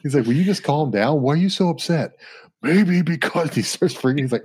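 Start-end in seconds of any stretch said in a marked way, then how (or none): 0.2-3.5 raised, whiny pitch; high mock voice. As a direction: pitch it up, freaking out. Hulk freaking out, retold.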